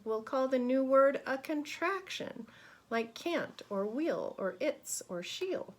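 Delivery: put-on lively, expressive reading to children; rhythmic, emphatic storybook voice; picture-book read-aloud. A narrator's reading. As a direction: read it brightly to a class of kids.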